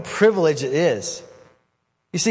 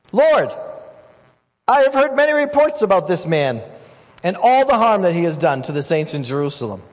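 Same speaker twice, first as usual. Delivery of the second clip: worried Ananias; 3 semitones higher, 3 dB louder than usual. Acted. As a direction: plead the danger to God, alarmed. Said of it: "So Ananias answers".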